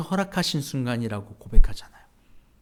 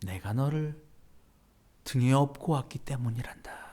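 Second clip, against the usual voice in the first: gentle repeat; 3 semitones lower, 7 dB quieter than usual. Retold or imitated. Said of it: "예수님께서 이렇게 얘기하셨다는 거죠".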